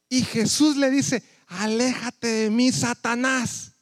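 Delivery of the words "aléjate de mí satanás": reprensión lenta. Acted. Jesús reprende a Pedro.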